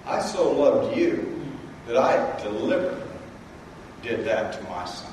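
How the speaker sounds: low, soft, intimate divine voice; God speaking. Retold or imitated. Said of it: "God's saying".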